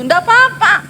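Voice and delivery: high, light and breezy nggak apa-apa; breezy reassurance. Retold or imitated. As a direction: toss off "apa-apa" high and easy. Pastor retells own reassurance. (santai dan tinggi)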